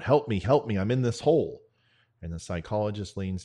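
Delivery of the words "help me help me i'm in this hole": mild acted yell, higher and louder; retold yell for help. Trapped soldier calling to a passing psychologist, mild retold yell. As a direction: call out for help, half-raised storyteller's yell. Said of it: "the soldier yells out".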